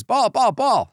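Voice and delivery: high, urgent call for the ball; official calling out. Retold or imitated. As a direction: bark it out like a ref.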